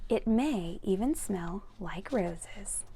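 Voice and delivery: slow tender whisper. Acted. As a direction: breathe it gently as the story's sweet close. Whispered closing line.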